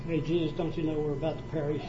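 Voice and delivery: a mild, offhand question with no panic; calm, casual ask. Shown as a demonstration. Preacher mocks a calm plea from the disciples, said casually. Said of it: "I don't think they walked up there and said".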